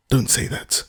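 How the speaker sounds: breathless, urgent protest; excited. A narrator's reading. Anna protesting to Betsy, excited. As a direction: cut her off in a rush. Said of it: "answered Anna's excited voice".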